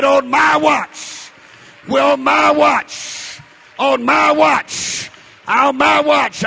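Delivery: preacher voicing a stand, slow and loud; slow emphatic declaration. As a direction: stress on my, drawn out slowly. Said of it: "and said".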